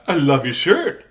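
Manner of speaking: lightly voiced southern lady; a hint of gushing southern lady. Nancy complimenting her teacher's shirt, light southern lady. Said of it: "talking like a southern lady".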